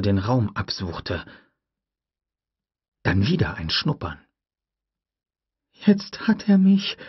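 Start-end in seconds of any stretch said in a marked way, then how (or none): 5.9-7.0 high, slow, breathy whisper; whispered thought. A narrator's reading. Tim hiding from the raptor, frightened whisper. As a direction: whisper it in terror. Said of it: "dachte Tim".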